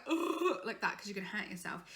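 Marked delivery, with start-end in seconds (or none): 0.1-0.6 small pinched ooh; half-hearted yawn sound; weak yawn sigh. Shown as a demonstration. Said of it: "Don't just go".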